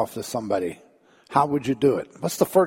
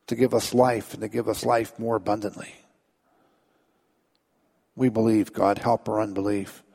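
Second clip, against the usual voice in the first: prayer. Acted. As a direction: lead the congregation in earnest prayer. Leads congregation in prayer.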